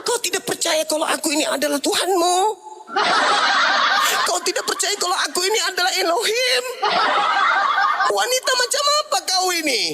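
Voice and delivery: high, laughing, hammed-up rebuke; mock divine rebuke. God scolding the woman who doubts him, high mock rebuke. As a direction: thunder at her, but play it for laughs.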